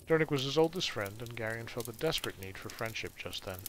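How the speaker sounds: steady storytelling read; story narration. A narrator's reading. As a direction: read the chapter aloud to the listeners. Reads novel aloud to stream.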